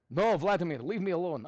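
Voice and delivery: hammed-up Russian accent. Teacher waving off an imagined Vladimir, mock Russian accent. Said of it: "do this in a Russian accent".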